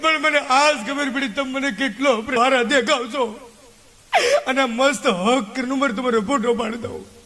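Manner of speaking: half-laughing put-on sob; mock weepy with a laugh; laughing mock crying. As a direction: blubber through laughter, teasing. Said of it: "કાકી રોવા માંડ્યા".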